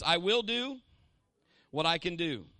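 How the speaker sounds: loud call to repeat; congregation call. Shown as a demonstration. Preacher leads the church in a loud declaration. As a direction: lead the crowd in a chant. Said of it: "Everybody say this".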